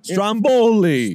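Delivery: Stromboli stretched slow and loud; drawn-out name. Pretend. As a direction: sing out Stromboli slowly, rolling it.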